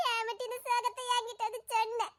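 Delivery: sniffle through it, hammed-up; mock sobbing. Sobs after sad song.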